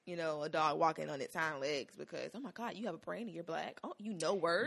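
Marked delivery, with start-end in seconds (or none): 2.3-4.7 mock amazement. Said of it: "You get treated like".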